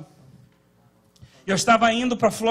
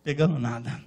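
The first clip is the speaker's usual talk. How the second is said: quiet complaint; 8 semitones lower, 7 dB quieter than usual. Retold or imitated. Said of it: "Eu falei".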